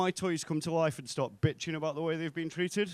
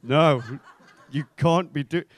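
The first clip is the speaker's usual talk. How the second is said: shocked protest; 8 dB louder, slower than usual. Retold or imitated. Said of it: "colleagues are stood there going".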